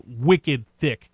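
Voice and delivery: a touch of put-on Boston accent; slow, lightly mocked Boston accent. Shown as a demonstration. Radio host joking about thick accents, light Boston accent. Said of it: "last time I do that accent".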